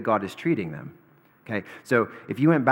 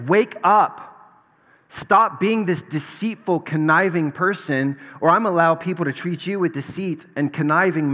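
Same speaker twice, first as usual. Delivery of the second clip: loud, higher, booming rebuke; God shakes Jacob awake, louder and higher; God's rebuke; 4 semitones higher, 4 dB louder than usual. Retold or imitated. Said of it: "And it's like".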